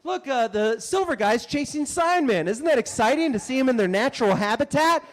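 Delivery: imitating a chipper tourist father; Oklahoma dad. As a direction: point out the spectacle to the kids. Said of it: "dads from Oklahoma that are like".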